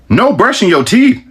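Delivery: high, slow disbelieving repeat; incredulous repeat. Real, not acted. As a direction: echo the rules like they're absurd.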